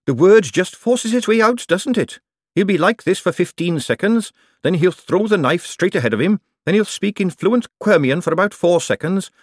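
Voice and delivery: put-on high-pitched young kitchen girl, used to it; long-suffering daughter Peggy. Daughter explaining the chef's fits to Moist, high and practical. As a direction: play Peggy high, briskly matter-of-fact.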